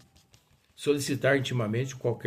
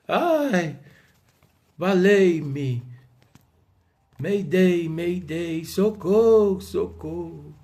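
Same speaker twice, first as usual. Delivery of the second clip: loud, high-pitched comic distress call; playful, overblown pleas for rescue; mock panic; 6 semitones higher, 8 dB louder, much slower than usual. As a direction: wail for help like a hammed-up fainter. Acting out André fainting in panic.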